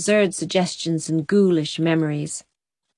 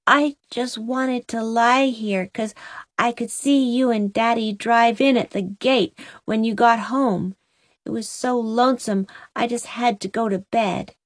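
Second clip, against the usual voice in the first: put-on child voice; 3 semitones higher than usual. Sleepy child answers mother.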